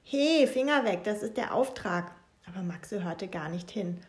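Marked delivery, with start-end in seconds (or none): 0.0-2.1 high, loud Hey, Finger weg; angry rebuke. Acted. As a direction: snap at him to hands off. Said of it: "knuffte ihn wütend".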